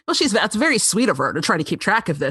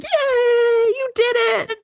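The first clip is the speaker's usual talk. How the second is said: mock family cheer; much slower than usual. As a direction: cheer for him, hammed-up. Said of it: "they're like".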